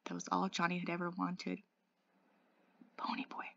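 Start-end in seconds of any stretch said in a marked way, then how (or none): 3.0-3.5 faint, dying call to a friend; barely audible. A narrator's reading. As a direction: let the name out very softly. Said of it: "I barely heard him".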